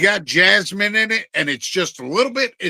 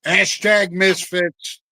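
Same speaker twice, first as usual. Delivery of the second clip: slow slogan; much slower than usual. Real, not acted. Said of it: "slogan drawn out".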